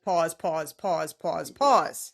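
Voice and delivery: disbelieving interruption. Real, not acted. Host halting guest's story about dad's reaction, disbelieving interruption. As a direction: cut in forcefully, then keep repeating it.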